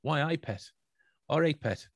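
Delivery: demonstrated Geordie with breathy T endings; Geordie accent. Shown as a demonstration. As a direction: show the Geordie T with an H after it. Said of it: "the atypical Geordie accent".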